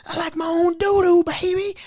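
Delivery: high teasing put-on voice; patient voiced high. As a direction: tease like a cheeky patient.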